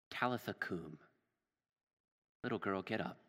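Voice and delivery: simple, tender address. Acted. Jesus takes the little girl's hand, simple tender address. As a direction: speak softly to a sleeping child. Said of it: "He himself simply speaks".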